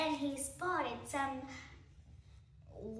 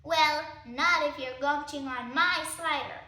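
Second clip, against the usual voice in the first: rat retort; 6 dB louder than usual. Acted.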